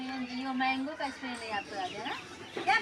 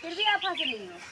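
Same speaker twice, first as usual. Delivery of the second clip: higher-pitched, exasperated telling-off; real scolding; 6 semitones higher than usual. Real, not acted. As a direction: tell off the gigglers, pitch raised. Teacher scolds giggling pupils. (डाँटते हुए, ऊँची आवाज़ में)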